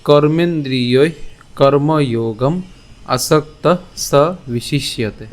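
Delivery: slow, measured Sanskrit shloka; verse recitation. Shown as a demonstration. Teacher gives the class today's shloka, slow recitation. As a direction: recite each phrase with drawn-out vowels. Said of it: "আজকের শ্লোকটি হল".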